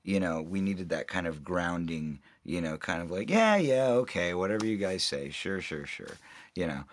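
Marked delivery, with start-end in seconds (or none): 3.3-6.2 laid-back agreement. Retold or imitated. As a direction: imitate an easygoing yes-man, tapering off. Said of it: "the laid-back, easygoing attitude that he had".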